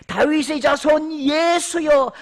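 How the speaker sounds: loud, high, slow shout; shouted cry. Acted. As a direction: cry out across the crowd. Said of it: "맹인이 외쳐 이르되". (천천히 크게 외치는 소리)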